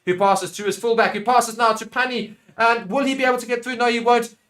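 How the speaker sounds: keen live rugby call; building play-by-play. Real, not acted. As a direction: build suspense as the pass goes wide.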